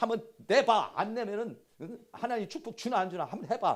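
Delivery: mock annoyed, angry tone. Speaker explaining a passage acts out how it is said: mock-irritated scolding. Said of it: "승질나면서 얘기하는 거야".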